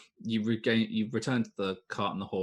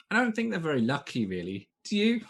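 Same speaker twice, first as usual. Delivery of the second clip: halfling voice; 6 semitones higher than usual. Acted. Halfling pipes up mockingly.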